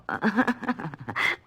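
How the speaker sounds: a forced, short careless laugh. Acted. Woman fakes a careless laugh for the detective. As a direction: try to laugh it off lightly. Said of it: "If that was supposed to be a careless laugh".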